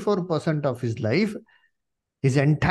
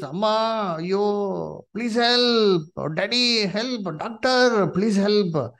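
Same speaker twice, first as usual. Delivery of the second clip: mock pleading screams; 5 semitones higher, slower than usual. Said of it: "They were screaming in hospitals".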